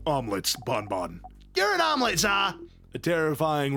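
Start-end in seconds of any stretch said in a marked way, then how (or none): 1.6-2.6 put-on shrill bratty kid. Preteen comeback.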